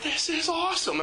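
put-on like a kid who loves the game; thrilled. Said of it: "And I'm just like".

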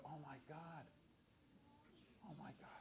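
soft, fearful oh my God; voicing a parent's quiet fear; hushed dread. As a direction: breathe it out in quiet dismay. Pastor voicing his own dread.

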